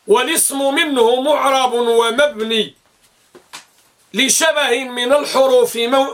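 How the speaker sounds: measured, drawn-out verse recital; verse recitation. Acted. Teacher quoting Ibn Malik's verse to students, measured recitation. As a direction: recite the grammar verse with long vowels.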